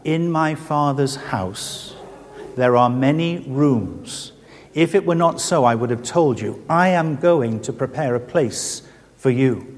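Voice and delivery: slow, solemn reading of the Gospel; scripture reading. Retold or imitated. Young visitor reading John's Gospel to the old lady, slow and solemn. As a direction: read the promise gently and slowly, like the old Bible open on your lap. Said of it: "I read from John's Gospel".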